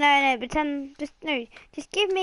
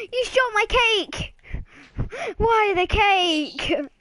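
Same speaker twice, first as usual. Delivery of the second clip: mock wail; 3 semitones higher, slower than usual. Child to dad after the cake is shot, hammed-up wailing. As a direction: wail over the lost cake.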